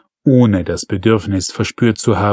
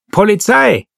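gruff policeman barking his title, pitched high; gruff Resch at the door; growled police badge; 11 semitones higher, 4 dB louder than usual. A narrator's reading. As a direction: announce the police with a gruff bark. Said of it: "brummte der Resch".

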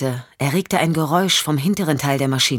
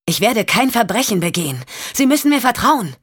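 higher, pleading insistence; Champ, insistent; 5 semitones higher than usual. Acted. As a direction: make her trust you.

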